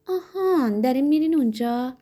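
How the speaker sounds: high, loud, scornful question; contemptuous. A narrator's reading. Innkeeper questioning the pharmacist's plans, contemptuous. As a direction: look down on him as you ask. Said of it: "با لحن تحقیرآمیز گفت".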